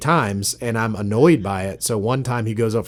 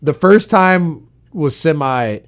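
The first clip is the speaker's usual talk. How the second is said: laughing protest; 8 semitones higher, 10 dB louder than usual. Real, not acted. Laughing defence of foul.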